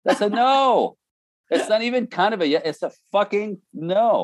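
high, insistent That's a no; emphatic no. Real, not acted. Husband explaining to the men, an emphatic high no. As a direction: hammer home that it means no. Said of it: "emphatic explanation".

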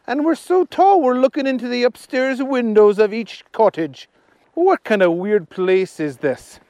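lively puzzled Archie voice. Acted. Archie telling Agnes the town is strange, puzzled. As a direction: wonder aloud as Archie.

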